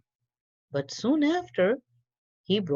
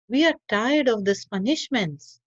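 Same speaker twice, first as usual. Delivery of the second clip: raised, higher voice of fed-up workers; workers complaining; 6 semitones higher, 4 dB louder than usual. A narrator's reading. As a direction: whine it like tired, itchy workers. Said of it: "they complained to him".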